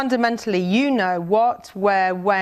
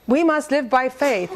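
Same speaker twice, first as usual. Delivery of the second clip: pitched-up, delighted declaration; excited realisation; 5 semitones higher than usual. Retold or imitated. Teacher grading essays, excited and high. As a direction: announce it like a revelation. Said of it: "and I'm going".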